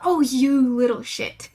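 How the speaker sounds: exasperated loud scold. Retold or imitated. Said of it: "you might raise your voice".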